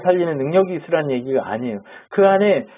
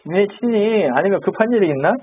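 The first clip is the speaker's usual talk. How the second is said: teasing singsong, pitch lifting as it goes; acted-out jeer at rivals; mock taunting; 3 semitones higher than usual. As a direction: needle them with mild mockery. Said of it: "그러니까 놀리죠".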